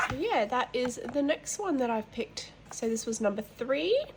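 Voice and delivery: stuffy nose from hay fever; nasal, blocked-nose voice; nasally voice. Real, not acted. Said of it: "Excuse the nasally voice too".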